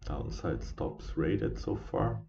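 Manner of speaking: slow, yawning through the words. Real, not acted. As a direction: talk through a yawn. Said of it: "sorry for yawning".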